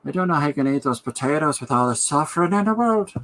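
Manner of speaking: a put-on earnest rock star lecturing at dinner; mock preachy rock star. A rock star lecturing a dinner guest, mock earnest and preachy. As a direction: scold the dinner table about potatoes, over-earnest.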